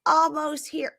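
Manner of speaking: high hammed-up wail; mock drunken whining. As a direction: whine it like the tipsy fiancée. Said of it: "And then she goes".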